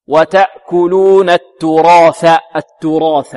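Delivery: slow التراث with a full, heavy ra. Shown as a demonstration. Teacher models recitation for students, heavy ra in التراث. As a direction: fill out the "ra" of التراث, darkened and drawn out. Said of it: "مفخمة".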